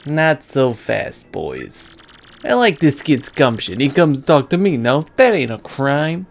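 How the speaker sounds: lightly voiced gangster boss; unhurried boss laying down orders; mob boss. Boss holding back his boys so the kid can talk, lightly voiced mobster.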